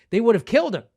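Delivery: preacher punching the verdict; emphatic. Real, not acted. Preacher stressing outrage.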